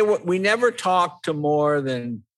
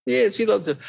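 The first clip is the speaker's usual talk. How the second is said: mock tearful; 7 semitones higher than usual. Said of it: "Everything's just crying".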